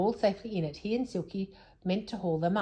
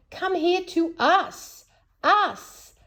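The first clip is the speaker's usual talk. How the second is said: high, slow, desperate call; shouting in despair; 11 semitones higher, 5 dB louder, much slower than usual. A narrator's reading. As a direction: call him over, desperate. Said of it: "shouted Joe in despair".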